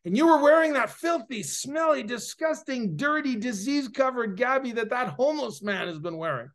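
mock disgusted outburst; appalled disgust. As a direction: imitate a woman aghast, piling up adjectives. Acted woman listing the filth, appalled.

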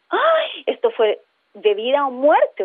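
half-acted fright over life and death; mock alarm. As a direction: voice the brain's panic, lightly. Brain voiced in alarm.

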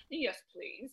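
put-on soft baby-talk reply; imitated baby talk. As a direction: mimic a partner slipping into baby talk, very softly. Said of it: "he almost went".

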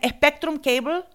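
high-pitched Spanish-accented scammer impression; mock cable caller with a thick Spanish accent. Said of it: "this guy with the thickest accent".

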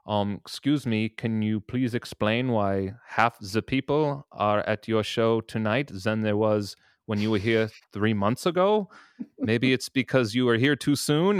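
terrible hammed-up German accent. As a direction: ham up a bad German accent. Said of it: "that was a fucking terrible German accent".

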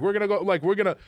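high-pitched mock German accent. German man with an arm round his new friend, imitated German accent. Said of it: "Do your German accent".

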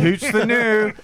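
playful Scotsman's catchphrase, put on; jokey Scottish accent, hammed up; mock Scottish accent. Teasing co-hosts who expect a Scotsman, mock Scottish accent. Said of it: "sound like a Scotsman".

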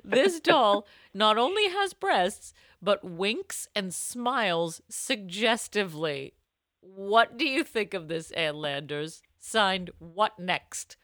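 mock-earnest letter reading; lightly performed letter read. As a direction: read it like an old advice column. Reads advice letter aloud.

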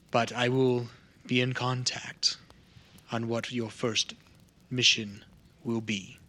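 measured spellcaster. Acted. Contact promising a first quest, measured. Game master voices the contact.

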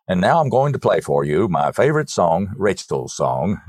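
lightly voiced radio DJ intro. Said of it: "in that wonderful radio voice of his".

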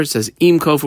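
im punched with a falling tune; stress on im. Shown as a demonstration. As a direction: hit the word im before kofer. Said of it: "could have said kofer".

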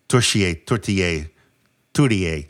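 "tortilla" as halting attempts at the French word tourtière; unsure pronunciation. Real, not acted. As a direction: fumble at tourtière as "tortilla", ending in "-ay". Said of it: "I never can pronounce it well".

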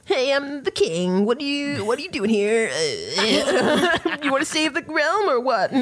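hammed-up king. GM voicing a silly king to players, hammed-up. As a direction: play a goofy pompous king. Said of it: "me being like".

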